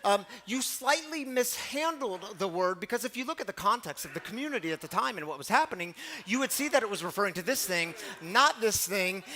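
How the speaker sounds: mock-formal correction, hitting the key words; precocious little scholar. Boy critiquing the pastor's sermon, mock-pedantic. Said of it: "eight-year-old Latin scholar in my midst".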